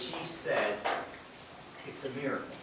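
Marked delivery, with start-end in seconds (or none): 1.9-2.6 retold hushed reply, a touch quieter; softly retold whisper of a word; low voice. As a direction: drop the voice a little for the answer. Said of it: "And in a very low voice".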